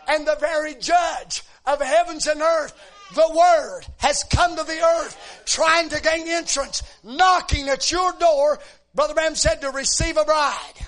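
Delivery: loud, ringing preacher's cry; preaching at full force. Acted. Preacher exhorting the congregation, loud and rising. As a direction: lift the church with it.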